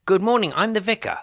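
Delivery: high, loud cheery introduction; loud doorstep greeting. Acted. Vicar booming a hello at a lonely woman's door. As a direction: announce yourself brightly on the doorstep.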